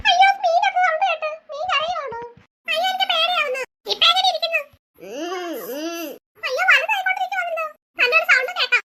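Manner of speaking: high, loud scared exclaiming; children panicking at the growing fish; frightened. Acted. Fish makes scary sounds.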